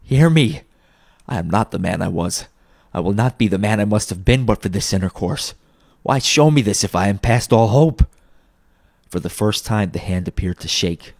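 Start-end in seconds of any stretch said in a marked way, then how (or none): 0.0-8.0 earnest, mildly desperate appeal; a touch of desperation; pleading. Acted. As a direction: start with a raised cry, then plead. Scrooge pleading with spirit.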